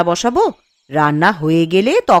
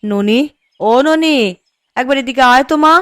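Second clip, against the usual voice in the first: mother calling her daughter Noni over, raised calling voice; 3 semitones higher than usual. Acted. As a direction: summon the daughter from across the yard. Mother calls daughter from afar.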